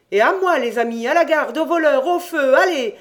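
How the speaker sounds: Jean acting out his rescue shouts; mock cries for help. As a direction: shout for the guard as a game. Crying for help, imagined.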